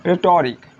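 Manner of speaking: रेटोरिक said "retorik", h dropped; silent h in रेटोरिक. Shown as a demonstration. Teacher modelling रेटोरिक, h left silent. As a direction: say रेटोरिक starting straight from r. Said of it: "ये एच ख़त्म हो गया".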